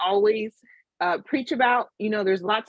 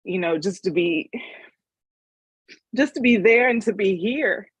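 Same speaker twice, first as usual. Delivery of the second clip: emotional. Real, not acted. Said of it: "I get a little emotional thinking about it".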